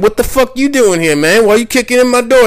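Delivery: hammed-up outraged yelp; acted indignant protest. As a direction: protest like you've been barged in on. Acted quarrel with police.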